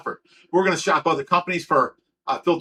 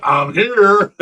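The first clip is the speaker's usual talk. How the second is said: mocking friend; 2 semitones higher, 7 dB louder than usual. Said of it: "you're like".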